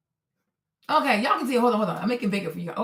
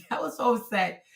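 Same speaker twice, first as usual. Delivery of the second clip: laughing; 4 semitones lower, 6 dB quieter than usual. Real, not acted. Laughing at her own anger.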